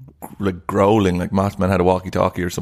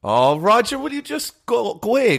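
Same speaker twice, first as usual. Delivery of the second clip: high-pitched exasperated dismissal; mock exasperation; 11 semitones higher than usual. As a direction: send him packing in a high, fed-up voice. Mock exasperation at co-host's odd liking.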